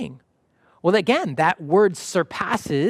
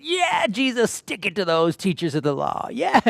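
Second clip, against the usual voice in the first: cheering crowd; 3 semitones higher than usual. Retold or imitated. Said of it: "the people who were wanting".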